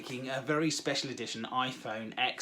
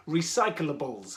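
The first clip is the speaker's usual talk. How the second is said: "Recyclables" said slowly and low, each syllable given room; careful pronunciation; 4 semitones lower, slower than usual. Shown as a demonstration. Host retrying a difficult word, careful pronunciation. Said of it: "very difficult word to say".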